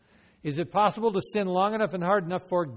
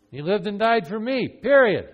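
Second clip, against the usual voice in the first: firm answer; 5 semitones higher, 8 dB louder than usual. Acted. Role-played convert answering firmly.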